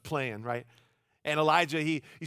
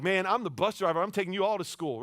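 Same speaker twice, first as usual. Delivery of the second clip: trash talk; 4 semitones higher, 4 dB louder than usual. Retold or imitated. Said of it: "trash talking the other guys".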